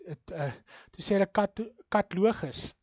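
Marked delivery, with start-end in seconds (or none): 1.9-2.7 katlogus with the middle a dropped; wrong pronunciation. Retold or imitated. Lecturer imitates a radio presenter's mispronunciation, vowel dropped. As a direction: squash katalogus into katlogus. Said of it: "die uitspraak is, is heeltemal verkeerd".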